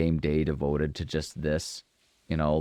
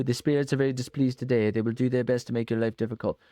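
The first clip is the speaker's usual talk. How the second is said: mystic fortune teller; 5 semitones higher than usual. Pretend. Reading fortune teller's warning.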